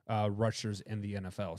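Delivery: normal talking voice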